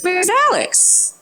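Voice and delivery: high, anxious asking; a worried friend calling out. Retold or imitated. Frantic question at pool.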